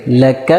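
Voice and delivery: لک read short with a quick zabar, not drawn out; short joined zabar. Shown as a demonstration. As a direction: say لک quickly, no long vowel. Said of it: "جلدی سے ادا کریں گے".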